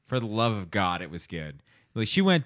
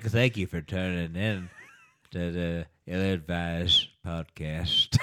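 put-on old man voice; 5 semitones lower, slower than usual. Shown as a demonstration. Mock old man show intro.

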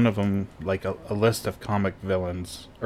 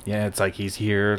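whispering. Pretend. Describing Pigpen vanishing in dust.

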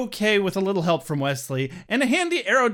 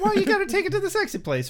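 high squeaky voice; 14 semitones higher, faster than usual. Pretend. Mock playful complaint.

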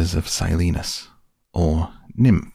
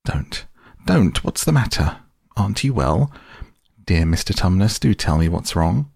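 distressed. Acted. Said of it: "in a great distress".

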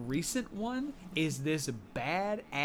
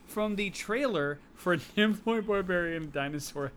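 laughing; 5 semitones higher than usual. Real, not acted. Laughing while naming the film.

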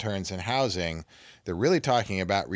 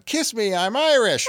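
higher, louder imitation of a tipsy reveler; mock holler, pitched up; retold crowd yell; 11 semitones higher, 5 dB louder than usual. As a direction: call it out as if running through a crowd. Brother yelling through a parade crowd.

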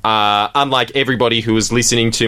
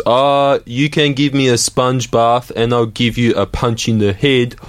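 mock heckler voice. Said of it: "most people's response was".

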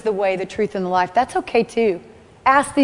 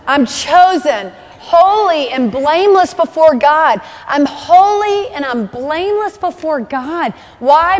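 higher, fervent declaration; fervent preaching; 4 semitones higher than usual. Real, not acted. Preacher proclaiming holiness to the congregation, fervent and raised. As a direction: proclaim it with conviction.

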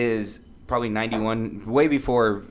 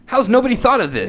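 high, louder mock amazement; amazed; 12 semitones higher, 5 dB louder than usual. Host imitating a listener's amazement, high mock disbelief. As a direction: imitate stunned disbelief at a great rhyme. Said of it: "and you're like".

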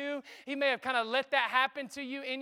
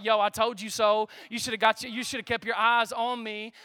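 louder, smug told-you-so; mock scolding; 5 dB louder than usual. Imagined Jesus scolding a sinking Peter, mock smug. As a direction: play a gloating I-told-you-so.

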